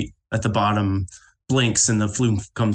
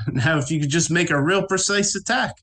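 game character; 7 semitones higher than usual. Acted. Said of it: "She goes".

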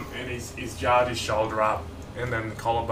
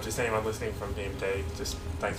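whispering into the mic; 8 dB quieter, faster than usual. Real, not acted. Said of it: "Why are you whispering into the mic so much?".

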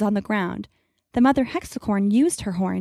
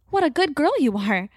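tender praise; 4 semitones higher than usual. A narrator's reading. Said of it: "talking softly the whole time".

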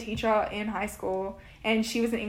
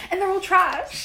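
laughing echo; 8 semitones higher, 4 dB louder than usual. Acted. Echoing the line in jest.

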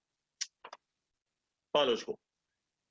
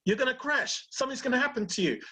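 voiced amygdala; 10 semitones higher than usual. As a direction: squeak out a frantic fearful warning, much higher. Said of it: "But the amygdala says".

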